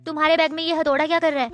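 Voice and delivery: confronting question at normal volume; direct questioning. Acted. Girl confronts new sister about her bag, direct questioning. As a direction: put the question straight to the other person.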